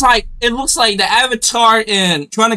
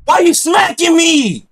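indignant protest; 3 semitones higher, slower than usual. Real, not acted. Protesting being smacked.

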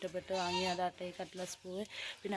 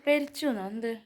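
surprised; 7 semitones higher, 3 dB louder than usual. Real, not acted. Startled question to someone nearby.

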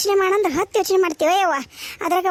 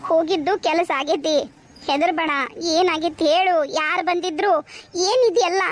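gentle, settled coaxing; calm her down with tender little questions; soothing. Acted. Mother telling her daughter not to fear, soothing.

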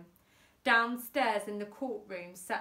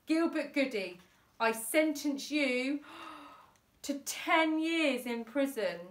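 judge announcing sentence; 6 semitones higher, 4 dB louder than usual. A narrator's reading. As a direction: hand down the sentence with dramatic pauses. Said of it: "as the judge announced".

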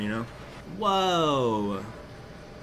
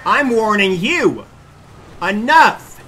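much louder, slow hammed-up threat; mock angry yell; 8 semitones higher, 13 dB louder, much slower than usual. Yelling at the pursuing cops, mock angry. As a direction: bellow it like a movie hero.

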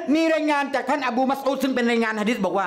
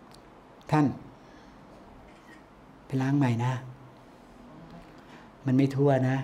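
gentle reminder; 8 semitones lower, 5 dB quieter, much slower than usual. Pretend. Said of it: "ทำไมไม่เตือนดีๆ".

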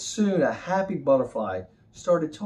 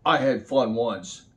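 grumpy cat voice. Acted.

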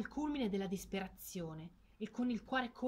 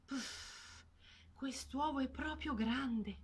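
huffing mother duck; 4 semitones higher, much slower than usual. Acted. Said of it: "si rimise a covare sbuffando".

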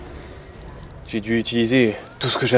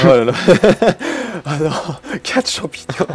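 laughing; 6 semitones higher, 8 dB louder than usual. Real, not acted. Laughing while counting.

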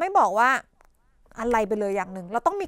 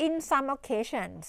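very slow, softer demo phrase; slow model phrase; 6 dB quieter, much slower than usual. Shown as a demonstration. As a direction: say it slowly to show the chunk. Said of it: "เราอาจจะต้องแบบ". (พูดช้าๆ เบาลง)

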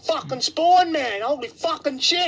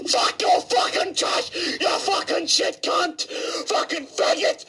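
furious shout; 5 semitones higher than usual. Real, not acted. Raging at enemy player.

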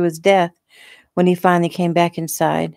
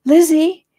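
high, loud questioning call; worried calling; 12 semitones higher, 6 dB louder than usual. A narrator's reading. Arriving friend calling for Lizzie, worried. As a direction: call the name out, rising sharply.

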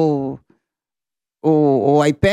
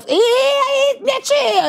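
much higher, chummy mock greeting; hammed-up buddy voice, pitched way up; imitating fake cop; much slower than usual. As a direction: play the crook suddenly turning friendly. Fake cop greets her warmly.

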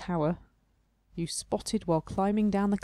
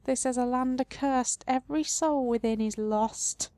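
a hint of a higher mournful tree voice; the tree face warning of the cursed land; lightly voiced sad tree; 4 semitones higher than usual. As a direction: keep the tree's sorrow light. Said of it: "the face replies sadly".

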